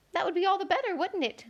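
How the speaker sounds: high, fussy White Queen. A narrator's reading. Queen corrects Alice in a high fussy voice. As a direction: pitch the Queen up high and flustered.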